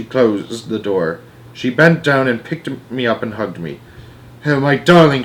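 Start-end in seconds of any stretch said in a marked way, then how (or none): 4.5-5.2 relieved cry. Acted. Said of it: "she cried".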